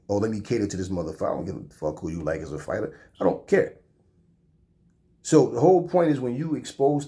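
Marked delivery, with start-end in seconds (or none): 0.1-3.8 mock dismissive reply. Mocking reply to a commenter.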